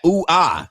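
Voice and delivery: quick hammed-up moan; mock sex moans. Streamer illustrating his point about sex, mock moaning. Imitates sex sounds mid-rant.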